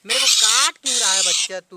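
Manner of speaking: loud pained scolding. Real, not acted. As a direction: scold the bird as it bites. Bird bites him again. (काटते पक्षी को ज़ोर से डाँटना)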